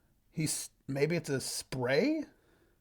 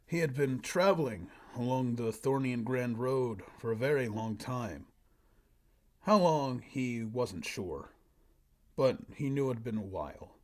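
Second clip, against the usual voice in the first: story narration. Acted. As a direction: read it out like a solemn fantasy tale. Reads own old story aloud.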